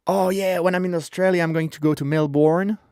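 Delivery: mock tourist, Melbourne said "Mel-born" with a rise; tourist mistake. Host mocking a tourist who says Melbourne wrong. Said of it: "You can't say".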